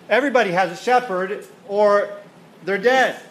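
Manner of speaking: forceful preaching. Acted. Preacher drives home his point.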